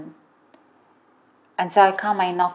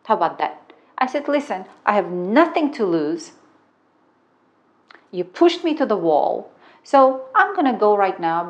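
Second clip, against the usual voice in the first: higher, louder, fighting back; defiant threat; 3 semitones higher, 4 dB louder than usual. Retold or imitated. Retelling her threat to the roommate, raised and defiant. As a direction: stand your ground and threaten. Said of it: "I turned on my inner man".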